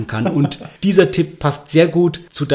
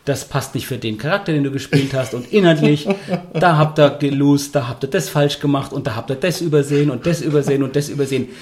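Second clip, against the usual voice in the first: lecturing game master. Retold or imitated. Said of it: "Und sagen".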